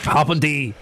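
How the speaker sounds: mangled German-accented Harpendy; playful go at a German accent. Shown as a demonstration. Host tries to Germanise the town name, German accent. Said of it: "can't say Harpenden with a German accent".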